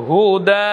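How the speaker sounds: হুদা with the long া held; Quran recitation. Shown as a demonstration. Teacher showing how হুদা is read at the verse end. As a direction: draw out হুদা evenly. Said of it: "উচ্চারণ কেমন হবে?".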